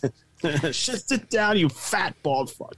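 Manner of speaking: put-on New York accent. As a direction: lightly mimic a New York gangster, drawn out. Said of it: "He's got the New York accent".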